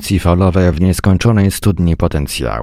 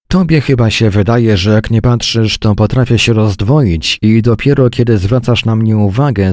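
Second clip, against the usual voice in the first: higher, louder exasperated wife; angry complaint; 5 semitones higher, 4 dB louder than usual. Acted. Wife venting to her husband, high and loud with anger. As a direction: let the frustration burst out.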